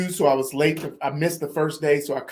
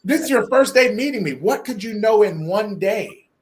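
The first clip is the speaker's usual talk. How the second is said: raised, louder disbelieving challenge; acted incredulity; 5 semitones higher, 4 dB louder than usual. Man questioning the mentor who just met him, incredulous. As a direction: push it higher, questioning how anyone could know. Retelling his doubt of the promise.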